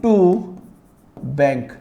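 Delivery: very slow, every word stretched with long pauses; slow dictation. Shown as a demonstration. Teacher writing the rent entry in the journal, very slow dictation. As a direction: spell out the entry slowly for note-taking. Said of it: "entry कर लेता हूँ".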